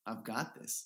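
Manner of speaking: smirking. Retold or imitated. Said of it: "let a little smirk out".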